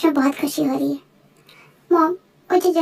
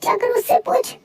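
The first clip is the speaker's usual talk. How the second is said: higher, upset tearful retort; acted tearful upset; 5 semitones higher than usual. Crying girl tells her friend to go ask Shuga, tearful and upset. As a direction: answer through acted tears, pitched up. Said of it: "तू रो क्यों रही है".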